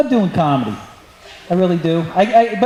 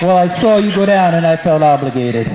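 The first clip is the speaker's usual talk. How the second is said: lightly voiced other guy; 6 semitones lower than usual.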